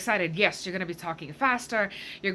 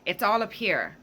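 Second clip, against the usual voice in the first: high head voice; 3 semitones higher than usual. Shown as a demonstration. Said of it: "you can see my voice even got a bit higher".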